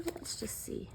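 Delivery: a whisper to herself. Real, not acted. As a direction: breathe it out under your breath. Quiet sticker planning.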